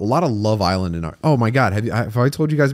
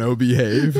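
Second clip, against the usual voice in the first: Austin Powers. Retold or imitated. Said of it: "it's called an".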